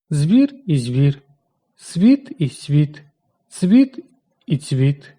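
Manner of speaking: each word said slowly, first with hard consonants, then softened; hard then soft pronunciation. Shown as a demonstration. Teacher showing students slowly both ways of saying each word. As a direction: contrast the hard and the soft way of saying звір, світ, цвіт, slowly. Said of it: "можуть вимовлятися і твердо, і м'яко".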